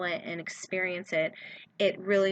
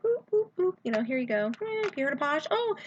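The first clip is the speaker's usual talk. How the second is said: bubbly greeting; 7 semitones higher than usual. Retold or imitated. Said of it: "I'd be like".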